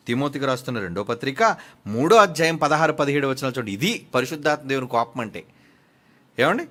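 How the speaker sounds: ordinary talk, nothing marked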